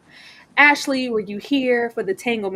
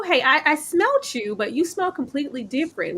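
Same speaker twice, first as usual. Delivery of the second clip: mock New Orleans accent; 5 semitones higher than usual. Co-host mocking Felix the rat catcher in a New Orleans accent. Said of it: "with his little one-off New Orleans accent".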